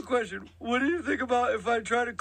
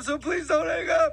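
hammed-up pleading; 4 semitones higher than usual. Prank caller begs, faked panic.

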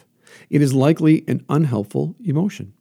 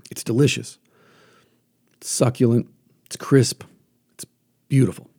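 whisper. Acted. Savouring an imagined apple.

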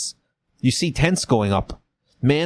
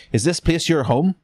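put-on higher, questioning Southern accent; Frank Underwood accent; 6 semitones higher than usual. Confederate officer questioning a captive, Southern accent. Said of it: "That's a Frank Underwood accent".

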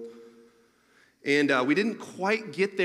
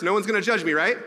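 louder and higher, "judge" leaned on hard, begging the room to agree; asking the audience for reassurance; 5 semitones higher, 6 dB louder than usual. Real, not acted. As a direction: plead with the crowd, with a rise on "right". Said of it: "I need reassurance".

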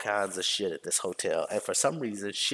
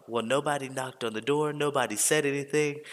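higher-pitched mock complaint; imitated grievance, pitched up; complaining guest; 5 semitones higher than usual. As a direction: lightly mimic a put-out hotel guest. Voices complaining hotel guest on phone.

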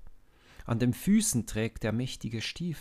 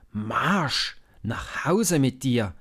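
loud, red-faced brother's order; angry yell; 4 semitones higher, 8 dB louder, slower than usual. A narrator's reading. Eliab furious, ordering little David home, loud. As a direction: bark him home. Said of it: "schreit er".

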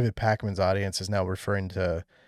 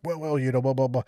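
stumbling politician; 2 semitones higher, faster than usual. Retold or imitated. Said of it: "the stumbling".

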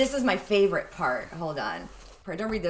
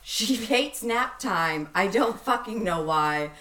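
slow, stiff spoken word reading; robotic poem; slower than usual. Shown as a demonstration. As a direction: read it like a deadpan robot poet. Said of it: "I read that like a, a robotic poem".

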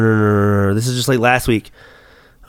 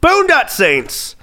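real delighted shout of recognition, higher and slow; excited recognition; 9 semitones higher, much slower than usual. Real, not acted. Friend names the movie, delighted slow recognition. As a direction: land it like the answer just hit you.

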